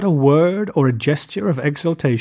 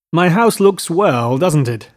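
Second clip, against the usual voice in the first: insistent, slowed-down boast; demanding; 3 semitones higher than usual. Acted. Gatsby shows off his house to Nick, demanding. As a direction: press him for praise. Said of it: "he demanded".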